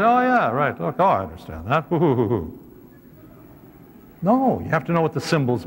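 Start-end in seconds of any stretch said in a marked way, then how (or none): 0.0-1.8 mock easy understanding. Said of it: "You don't just pick this up and say".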